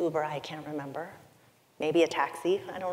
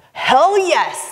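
much louder and higher burst; visceral yes; 10 semitones higher, 14 dB louder than usual. Retold or imitated. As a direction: blurt it out from the gut. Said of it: "came up like a visceral, primal animal".

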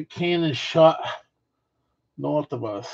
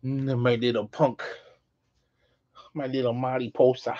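tender; 6 dB quieter than usual. Real, not acted. Tender talk to pet.

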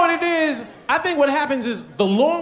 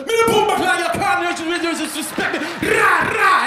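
put-on Jamaican accent; 8 semitones higher than usual. Husband imitating his wife's Jamaican-accented yelling. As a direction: switch to the Jamaican side, flag raised. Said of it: "back and forth".

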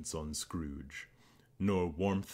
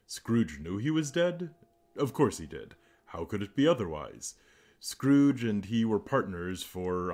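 story narration. A narrator's reading. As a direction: read it like an old audiobook narrator. Reads Christmas Carol aloud.

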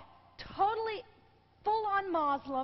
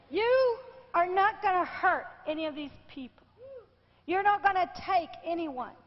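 retold commanding rebuke; 3 dB louder than usual.

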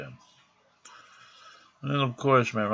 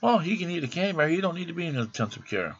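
mocking the staff; 8 semitones higher, faster than usual. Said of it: "they figured".

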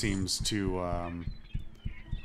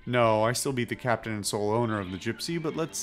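put-on light pirate accent; cagey captain with a touch of pirate accent; Edward Teach in pirate accent. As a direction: close the subject in a mild pirate brogue. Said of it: "I don't know why I'm doing the accent".

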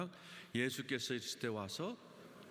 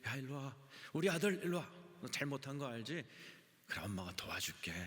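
lightly voiced mother; 2 semitones higher than usual. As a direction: lightly act a mother coaxing her child in. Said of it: "엄마가 자식을 이렇게". (아이를 달래는 엄마를 살짝 흉내 낸 말투)

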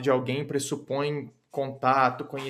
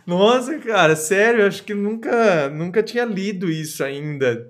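excited; 4 semitones higher, 4 dB louder than usual. Real, not acted. Amazed after reading sensual call.

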